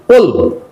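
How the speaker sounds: "pull" with a short oo like in "book"; teacher demonstrating "pull" with a short oo. Shown as a demonstration. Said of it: "U pronounced as O".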